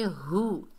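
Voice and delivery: हु with a full h and short u; heavy h. Shown as a demonstration. Teacher shows the letter, heavy हु. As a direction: lean into the h of हु. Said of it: "हा को भारी sound से अदा करेंगे".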